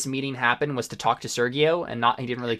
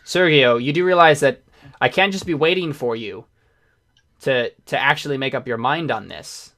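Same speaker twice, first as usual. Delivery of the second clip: insistent negotiator, louder at first, easing off; pressuring negotiator; 7 dB louder than usual. Acted. Negotiator pressing Sergio to make up his mind, insistent. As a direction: lean on him for an answer. Game master voices an impatient figure.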